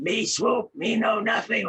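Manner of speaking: loud, high dopey Swoop voice. Shown as a demonstration. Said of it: "So I went".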